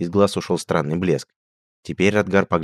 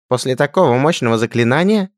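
high shrieking falsetto, louder; falsetto squeal; 8 semitones higher, 6 dB louder than usual. Acted. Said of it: "взвизгнул Радгар фальцетом".

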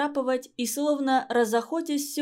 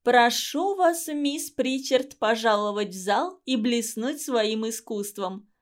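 nasal singsong mimicry. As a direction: sing it through the nose, affected. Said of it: "пропела она в нос". (пропела в нос, передразнивая)

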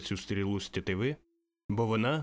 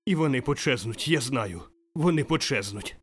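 louder, higher, breathless delight; excited joy; 3 semitones higher, 5 dB louder than usual. Acted. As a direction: rejoice that nothing is lost. Scrooge overjoyed, excited. (збуджена радість)

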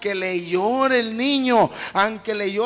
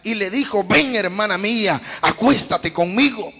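scripture reading; 3 dB louder than usual. Acted. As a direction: read the verses with weight. Lectura bíblica continuada. (lectura bíblica pausada)

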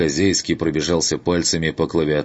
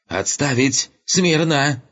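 falsetto shout; 10 semitones higher, slower than usual. Acted. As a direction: command cracking up into a high falsetto. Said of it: "Голос Руфа вновь сорвался на фальцет".

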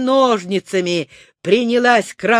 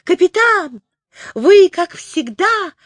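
squeaky alien voice; 10 semitones higher, 5 dB louder than usual. Acted. Klyuk-Klyuk praises captain.

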